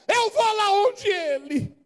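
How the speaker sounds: slow, breaking into a cry; a slow tearful vow. Acted. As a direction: let the voice crack with despair. Voice breaks acting the leper.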